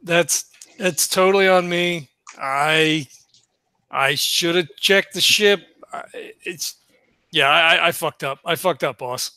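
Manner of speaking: halting, understated admission of fault; mildly shamefaced. Acted. Nash owning up to the boss over the ship, mildly shamefaced. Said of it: "Nash hangs his head, and he's like".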